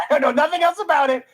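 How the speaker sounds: laughing while speaking; incredulous laugh. Real, not acted. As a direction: laugh it out in disbelief. Laughs in disbelief.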